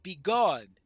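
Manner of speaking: loud banishing cry; commanding shout. Retold or imitated. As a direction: bark it out loud. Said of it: "I could say to Mozog".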